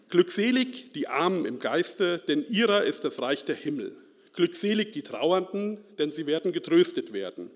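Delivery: measured, solemn Bible reading; scripture reading. Acted. Reads the Beatitudes aloud. (feierliche Schriftlesung)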